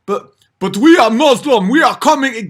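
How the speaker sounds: hammed-up caricature, pushed loud and high; mock Muslim migrant. Mimicking Muslim migrants arriving.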